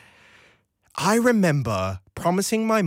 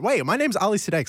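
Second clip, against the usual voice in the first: quick, higher catch-up to state his own name; hurried fix; 6 semitones higher, faster than usual. Real, not acted. Host realises he forgot his name on air: hurried high fix. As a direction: rush the name in as a correction. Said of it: "Sorry, that I should have".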